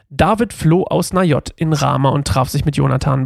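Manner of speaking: measured scripture narration; Bible reading aloud. A narrator's reading. Reader tells listeners of David meeting Jonathan, measured Bible narration. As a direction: read the passage out as storytelling.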